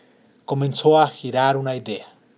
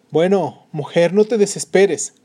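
husband consoling; 5 semitones higher, 7 dB louder, slower than usual. Acted. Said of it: "contestó el marido".

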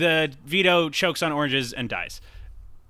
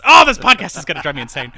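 exasperated outburst; 10 dB louder, faster than usual. Real, not acted. Exasperated at forgetting names.

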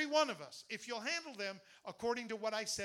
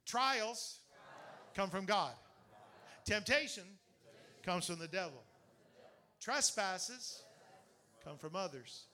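call and response; 2 semitones lower than usual. Shown as a demonstration. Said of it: "Everybody say".

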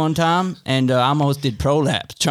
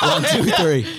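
put-on American accent; 3 semitones higher than usual. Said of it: "we're going American".

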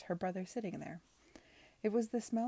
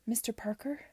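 breathy whisper of his name; breathed; 4 semitones higher, 4 dB louder than usual. Acted. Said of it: "she breathed".

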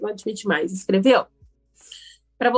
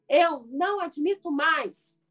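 slow declaration; 7 semitones higher, slower than usual. Shown as a demonstration.

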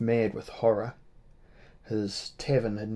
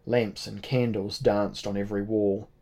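ordinary delivery

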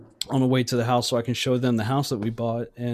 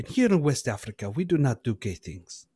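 mock West African accent; 3 dB quieter than usual. Comic character introducing himself, West African accent.

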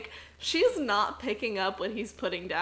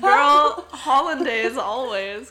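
laughing retort; 2 semitones higher, 10 dB louder, slower than usual. Acted. Laughing answer to joke.

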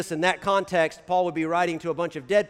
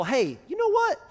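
eager blessing. Pretend. Pastor urging church to bless people, eager mock blessing. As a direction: bless a stranger with sudden enthusiasm. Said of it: "try just out loud telling some people".

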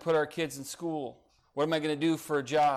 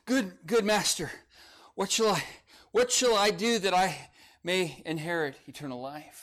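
out of breath; 4 semitones higher than usual. Acted. Young man running to Jesus for eternal life, panting. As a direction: gasp out the question after running. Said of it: "out of breath as I am portraying".

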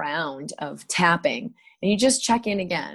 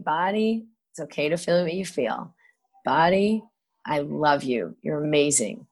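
tender self-talk; 2 semitones lower than usual. Retold or imitated. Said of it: "I'll be like".

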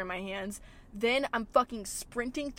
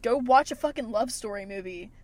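mock angry rant; 5 dB louder than usual. Real, not acted. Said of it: "Why did I just get so angry with that".

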